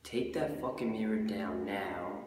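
slow, drawn-out catchphrase; battle catchphrase. Acted. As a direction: deliver the slogan slowly. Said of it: "everyone says it at the battles".

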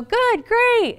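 a breezy automatic answer, no real meaning; a hint of hollow cheer; chirpy brush-off. Rushed American small talk.

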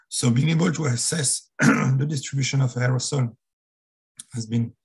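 strained, cracking voice; voice about to break. Real, not acted. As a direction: voice on the edge of breaking. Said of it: "Very sorry for my broken voice now".

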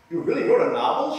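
high, bright teacher voice, loud; teacher's eager question. Retold or imitated. Teacher Miss S amazed her pupil wrote a novel, high eager voice. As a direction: play the delighted teacher.

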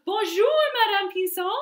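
high, bright sing-song bonjour; cheerful greeting. Acted. Zookeeper's son greets the lion in a high cheery voice.

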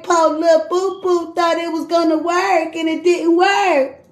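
sing-song mock pity; taunting singsong, it didn't work; mocking baby talk. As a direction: coo it like teasing a pouting child. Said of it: "what the fuck made me talk like that".

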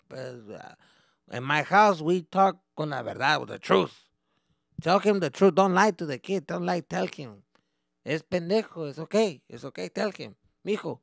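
high, loud insistent dad in Spanish; blunt dad voice. Retold or imitated. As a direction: demand they tell him the truth. Dad argues with translator.

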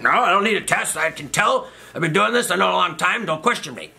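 high-pitched, indignant mock doctor; imitated dismissive doctor. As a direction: shut down the patient's doubts, high-pitched. Doctor brushes off patient's question.

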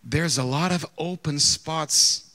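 slow, drawn-out mock politeness; overly measured sweetness, stretching the words; mock sweetly. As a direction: say it slowly with pretend sweetness. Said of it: "I said it very sweetly".

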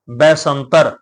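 ਬੈਸੰਤਰ with a B sound, bɛsəntər; alternate spelling shown. Shown as a demonstration. Teacher showing a variant spelling, clearly pronounced. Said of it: "ਬੱਬੇ ਦੇ ਉੱਪਰ ਦੁਲਾਵਾਂ ਲਾ ਕੇ ਵੀ ਲਿਖਿਆ ਮਿਲਦਾ".

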